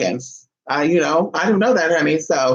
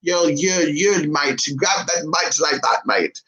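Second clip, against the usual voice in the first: loose mock British accent; amateur British accent imitation; British accent attempt; slower than usual. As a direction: try on a rough British lilt. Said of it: "like, a British accent".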